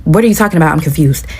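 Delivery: sincerely baffled, without raising the volume; serious, confused. Retold or imitated. Answering an accusation from the bathroom door, seriously confused. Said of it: "very seriously in, in this tone of voice".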